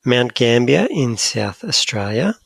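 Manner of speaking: slow South African vowels; South African accent. Acted. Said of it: "with a South African accent".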